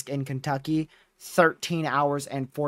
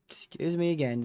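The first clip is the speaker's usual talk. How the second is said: talking through a yawn; sleepy, mid-yawn; 3 semitones higher, 4 dB quieter than usual. Real, not acted. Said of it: "I apologize for all the yawning".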